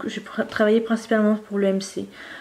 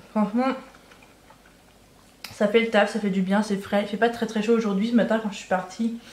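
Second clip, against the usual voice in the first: mouth full. Real, not acted. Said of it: "je parle à la bouche pleine".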